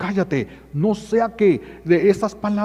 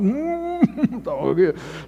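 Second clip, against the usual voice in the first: muffled laugh; 3 semitones higher than usual. Real, not acted. Funny story climax.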